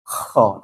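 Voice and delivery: over-rasped KHO with heavy throat friction; wrong kho. Shown as a demonstration. Teacher showing students the forbidden kho, over-rasped. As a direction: say "kho" with too much rasp. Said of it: "tidak boleh disebut dengan".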